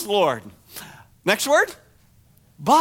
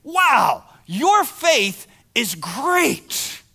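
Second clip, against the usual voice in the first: amazed praise; 3 semitones higher, much slower than usual. Retold or imitated. What if Jesus said to you.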